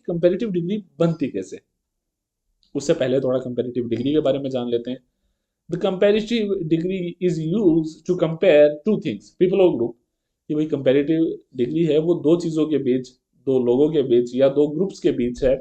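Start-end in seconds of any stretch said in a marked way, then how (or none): 5.7-9.9 very slow, word by word; slow definition reading. Shown as a demonstration. Teacher reading the definition to the class, slow. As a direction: read the rule slowly for the students.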